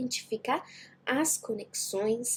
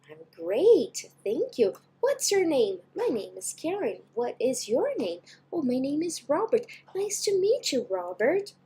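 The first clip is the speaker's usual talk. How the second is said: stiff textbook reply; 3 semitones higher than usual. Shown as a demonstration. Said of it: "Aquela coisa bem engessada".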